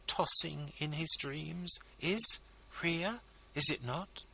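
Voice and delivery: high, coaxing, ladylike entreaty; wife begging a favour for her husband, high and coaxing; pleading society lady. A narrator's reading. Mrs Lammle pleading.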